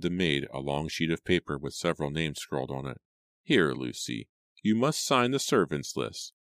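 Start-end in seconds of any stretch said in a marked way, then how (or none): 3.4-6.3 lightly voiced fussy servant; mildly bossy older servant; instructing housekeeper.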